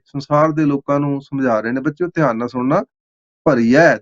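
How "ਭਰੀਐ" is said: ਭਰੀਏ ending in an open "ai", as bhariyai; ਭਰੀਏ pronounced "bha-ri-yai"; double-lavan ending. Shown as a demonstration. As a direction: say ਭਰੀਏ with two lavan, open final vowel. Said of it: "ਦੋ ਐੜੇ ਨੂੰ ਦੋ ਦਲਾਵਾਂ".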